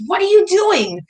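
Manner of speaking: high, startled grandma voice; grandma's alarmed question. Retold or imitated. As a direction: raise the pitch, a scandalized grandma.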